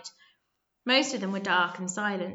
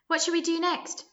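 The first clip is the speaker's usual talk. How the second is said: high, squeaky little voice; high squeaking question from a small boy; 9 semitones higher, 3 dB louder than usual. A narrator's reading. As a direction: squeak it out like a nervous kid. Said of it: "squeaked Zit".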